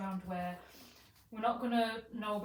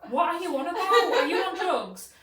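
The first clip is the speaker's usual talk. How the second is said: high, loud incredulous questions; acted disbelief; 8 semitones higher, 15 dB louder than usual. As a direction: play innocent and astonished, stretching the last question. Retold feigned disbelief on phone.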